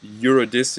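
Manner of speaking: "Eurydice" as yur-uh-DISS-ee; tentative Greek pronunciation. Shown as a demonstration. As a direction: say "Eurydice" carefully, stressed on DISS, ending in ee. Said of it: "if I'm pronouncing the Greek correctly".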